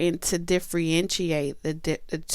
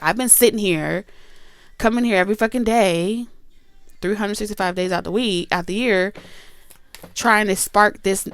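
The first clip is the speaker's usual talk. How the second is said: jealous complaint; 4 semitones higher, 5 dB louder than usual. Retold or imitated.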